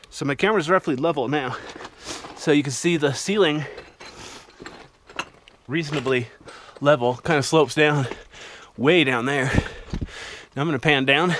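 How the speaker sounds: breathing hard after a steep climb; out of breath, puffing between phrases. Real, not acted. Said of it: "the reason I'm out of breath".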